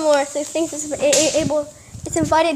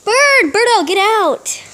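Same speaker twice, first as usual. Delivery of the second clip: loud call to the bird; coaxing a wild bird; 4 semitones higher, 4 dB louder, much slower than usual. Real, not acted. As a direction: call it out the window. Calling the bird outside.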